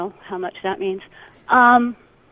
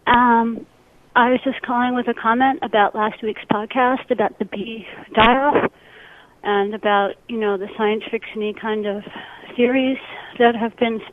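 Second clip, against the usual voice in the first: voicemail over a phone line; phone recording; answering machine message. Real, not acted. This one's from a caller.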